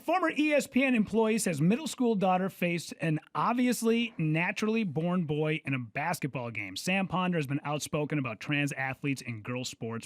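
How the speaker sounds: reading a headline aloud; news read. Acted. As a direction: deliver it like a newscaster.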